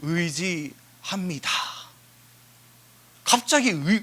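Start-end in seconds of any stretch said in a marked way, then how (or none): 0.0-1.5 deliberate, phrase-by-phrase declaration; acted devout confession; confession of trust. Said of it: "의지의 신뢰의 고백을 해요".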